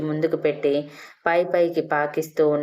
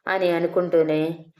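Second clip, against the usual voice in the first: plain reading voice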